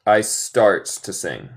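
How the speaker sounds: "I starts to sing." again, slowly; slow repeat of the test sentence. Shown as a demonstration. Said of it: "es correcto o incorrecto".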